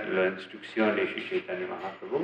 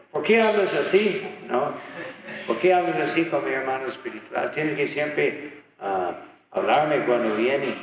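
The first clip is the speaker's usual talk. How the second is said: mild scolding; 4 semitones higher than usual. Retold or imitated. Prabhupada scolds the disciple.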